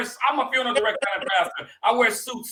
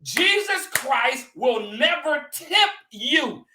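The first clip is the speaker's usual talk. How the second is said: preaching; 3 semitones higher than usual. Acted. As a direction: teach the congregation with full preacher force. I ain't trying to preach.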